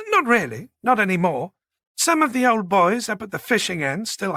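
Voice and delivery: a hint of a polite, chatty woman; lightly voiced genteel woman. Manager explaining local speech to Boyd, lightly voiced polite woman.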